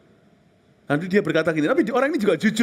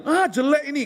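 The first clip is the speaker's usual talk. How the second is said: mock disdain; 11 semitones higher than usual. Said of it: "Kalau kita datang ke satu tempat ya".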